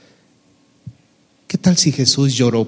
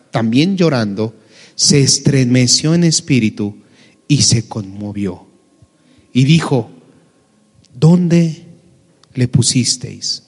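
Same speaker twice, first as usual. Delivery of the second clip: scripture reading. Acted. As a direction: read the verse solemnly, letting each phrase land. Reads the Bible passage aloud. (lectura bíblica pausada y solemne)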